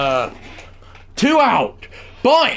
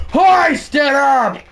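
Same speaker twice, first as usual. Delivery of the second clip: cheering shout; 5 semitones higher, slower than usual. Pretend. Cheering manager to raise banner.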